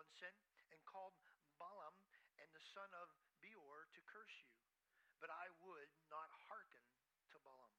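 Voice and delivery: measured, solemn Bible reading; scripture reading. Acted. Preacher reading Joshua to the congregation, solemn reading. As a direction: read the verses like a preacher at the pulpit. Reads scripture passage aloud.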